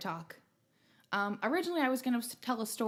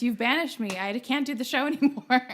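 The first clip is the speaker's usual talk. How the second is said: louder, hammed-up protest; mock outrage; 3 semitones higher, 6 dB louder than usual. Host claims co-host's accent banished him, mock outrage. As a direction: playfully protest being cast out for good.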